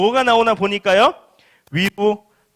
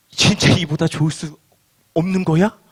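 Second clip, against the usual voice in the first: hesitant, mildly disbelieving question; doubtful question; 3 semitones lower than usual. Acted. Believers wondering at Jesus' claim, mildly doubtful. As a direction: pause midway, then end on a questioning tone. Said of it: "라는 생각이 든다는 것입니다".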